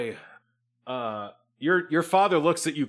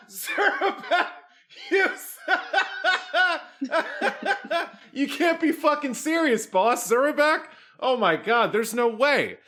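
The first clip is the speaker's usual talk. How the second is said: cackling, disbelieving henchwoman; laughing in disbelief. Acted. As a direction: laugh it off as absurd. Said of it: "falls on the ground laughing".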